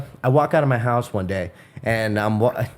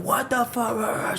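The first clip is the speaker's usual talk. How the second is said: high, slow, softer what-the-fuck; mock outrage; 9 semitones higher, 6 dB quieter, much slower than usual. Neighbor sees the teller coming, mock outraged. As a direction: draw it out in disbelieving rage. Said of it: "He's like".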